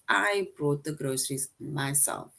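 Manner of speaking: "I" held as the most prominent word; stress on I. Shown as a demonstration. Teacher rereading the example to the class, emphasis on "I". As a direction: put the main weight on the word "I". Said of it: "it puts emphasis on I".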